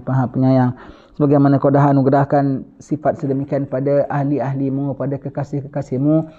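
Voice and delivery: steady devout supplication; earnest prayer. Acted. Preacher leading the congregation in prayer, devout. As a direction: plead to God in a steady chant.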